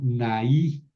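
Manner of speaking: "naí" in two syllables, na-í; broken diphthong. Shown as a demonstration. Teacher shows the dative, "naí" with vowels kept apart. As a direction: split the vowels of "naí", landing on í. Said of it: "aquí rompo el diptongo".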